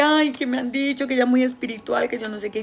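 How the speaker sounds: light imitation of the lady's fuss; mocking gossip voice. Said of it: "es que".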